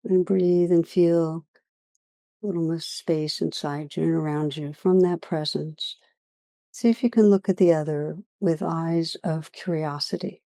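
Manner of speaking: unhurried meditation guiding with long pauses; guided meditation. Real, not acted. Teacher leading listeners through a practice on judgment, guided meditation. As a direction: lead listeners gently inward, leaving long silences.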